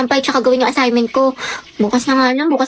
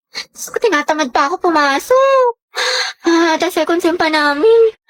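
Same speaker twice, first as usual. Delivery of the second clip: slow, dragging complaint; tired, unwilling. Acted. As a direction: drag the words out, too lazy for school. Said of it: "Pagod na ako". (tamad at pagod na pagrereklamo)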